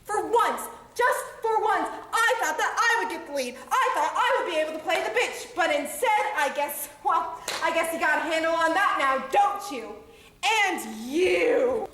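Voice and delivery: a scolding rant, laughing bitterly at times; acted anger. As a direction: tear into each of them in turn. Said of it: "Did you feel the anger?".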